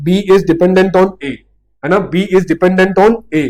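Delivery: "B is dependent on A" spelled out slowly, each word given weight; teacher stresses "dependent" slowly; slow key rule. Shown as a demonstration. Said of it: "देख concept क्या निकला".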